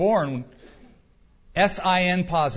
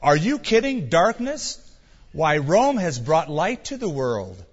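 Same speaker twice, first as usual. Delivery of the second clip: scoffing; 3 dB louder than usual. Pretend. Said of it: "They would have scoffed".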